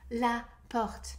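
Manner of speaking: clearly voiced French word, demonstrated for learners; full-voiced French demonstration; pronounced out loud. Shown as a demonstration. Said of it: "Pronounce it out loud".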